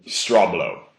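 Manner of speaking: "straw blow" falling in pitch, set off by pauses; deliberate STRAW BLOW. Shown as a demonstration. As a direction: drop "straw blow" as a self-amused punchline. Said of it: "You gotta say it like that".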